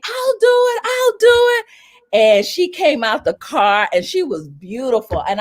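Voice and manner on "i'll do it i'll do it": high eager volunteering; high excited I'll do it; eager scream. Retold or imitated. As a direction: jump in eagerly, pitched high. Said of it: "So I screamed".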